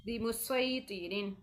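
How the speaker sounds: बिमुसैतिरीन slow, with a thick, heavy s; बिमुसैतिरीन with an emphatic s; heavy sad. Shown as a demonstration. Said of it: "मोटा करके पढ़ना है".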